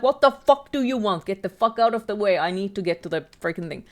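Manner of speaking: loud, impatient snap at the monster; annoyed outburst. Acted. Streamer shooing the monster out of the way, annoyed. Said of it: "instead of being afraid of the monster".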